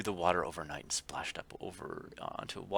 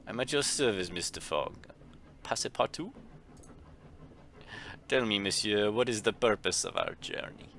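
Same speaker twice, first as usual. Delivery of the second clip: fancy gentleman; 4 semitones higher than usual. Acted. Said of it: "I still don't have an accent for him".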